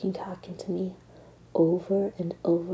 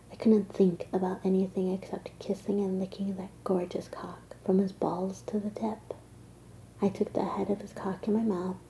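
erotic whisper. Acted. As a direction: whisper it like a secret.

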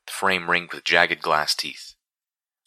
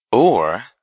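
sudden sweetness; 5 semitones higher, 6 dB louder than usual. A narrator's reading. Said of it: "with a sudden sweetness".

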